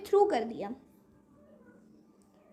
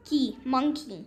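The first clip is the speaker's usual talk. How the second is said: की alone, then मंकी said as one word; syllable, then whole word. Shown as a demonstration. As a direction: finish the split, then blend into मंकी. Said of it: "यहाँ पर words के syllable given हैं".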